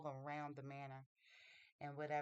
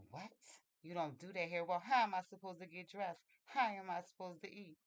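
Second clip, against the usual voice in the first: retold indignant protest, louder and raised; indignant disbelief; 3 semitones higher, 6 dB louder than usual. Mary challenges the maid who won't dress her, indignant disbelief. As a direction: act out a child's affronted questions. Girl protests being left to herself.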